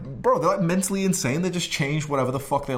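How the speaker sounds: normal talking voice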